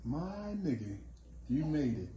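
ordinary delivery

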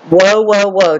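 mild loud proclamation. Retold or imitated. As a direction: proclaim it like an angel's warning, without shouting. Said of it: "saying with a loud voice".

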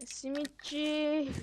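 slow, stretched street seller call; drawn-out vendor cry. Pretend. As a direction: drag it out like a simit peddler.

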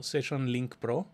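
slow, each word laid out clearly; slow dictation. Shown as a demonstration. Host dictating a tool name for the listener to note, slowly. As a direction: spell it out slowly so she can write it down. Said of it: "si puedes, anótatelo".

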